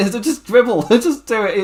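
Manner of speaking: high, urgent imitated demand; mock shouting. Retelling the wrestler desperate to con somebody, mock shouting. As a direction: imitate desperately ordering someone to do it. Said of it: "just shouting at him to do it".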